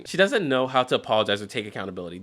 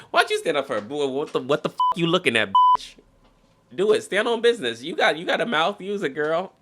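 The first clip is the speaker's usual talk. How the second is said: mock hype girl; 6 semitones higher, 4 dB louder than usual. Voicing the girlfriend egging him on.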